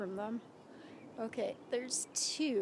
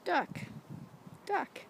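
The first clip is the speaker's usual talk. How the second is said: high sing-song; 7 semitones higher than usual. Shown as a demonstration. Repeating word for toddler.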